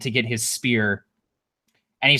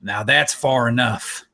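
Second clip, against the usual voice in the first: stern warning; 2 semitones lower than usual. Acted. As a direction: warn him off, slow and firm. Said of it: "he goes".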